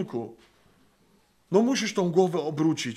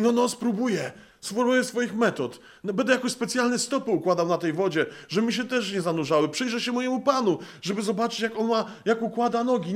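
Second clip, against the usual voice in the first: higher, fussy mock voice of a know-it-all; mocking self-reliant Peter; 5 semitones higher than usual. Preacher mocks Peter planning his own walk on water, higher mock voice. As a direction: lampoon Peter fiddling with his own methods.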